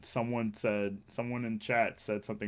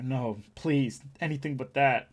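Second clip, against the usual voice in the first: mock plea; 5 dB louder than usual. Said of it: "you're saying not Posty and like".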